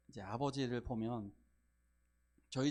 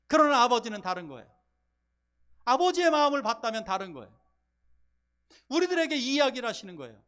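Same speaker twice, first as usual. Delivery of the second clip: much louder and higher, driving sermon; full-force preaching; 7 semitones higher, 10 dB louder than usual. Acted. Pastor confronting hardened hearts, preaching at full force. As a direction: thunder it from the pulpit.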